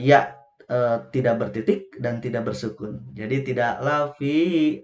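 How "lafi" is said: lafi with the i stretched; wrong long reading. Shown as a demonstration. Teacher showing the wrong reading again, chanted. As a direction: overlengthen lafi as the mistake. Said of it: "ah, salah".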